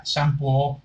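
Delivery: shampoo con sh inicial y o final; pronunciación de niño. Retold or imitated. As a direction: di "shampoo" tal como se lee, con o. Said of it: "cuando estaba chiquillo decía shampoo". ("shampoo" leído a la española, con o final)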